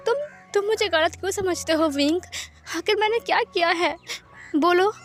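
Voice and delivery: tearful protest. Acted. Lan Wangji asking why Wing misunderstands him, tearful. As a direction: protest as if close to sobbing. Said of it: "please रोना बंद करो baby".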